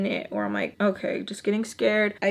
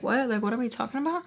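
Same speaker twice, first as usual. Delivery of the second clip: retold puzzlement, a bit softer; confused; 3 semitones higher, 4 dB quieter, faster than usual. Re-enacting her reply to the questioner, mildly confused. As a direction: act out mild confusion with a rising question. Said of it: "I was, like, confused".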